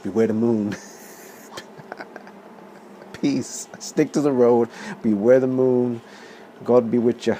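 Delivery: a hint of a spooky old villager, hushed then firm; ominous village local. Pub local warning the American backpackers, mock ominous. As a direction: warn the lads like a grim local. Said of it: "That's what he tells them".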